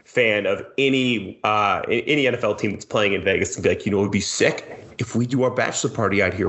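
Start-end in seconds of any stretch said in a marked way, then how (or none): 3.9-6.5 hyped-up party bro; lightly voiced frat bro planning a bachelor party. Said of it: "the speaker's impersonation of a bro".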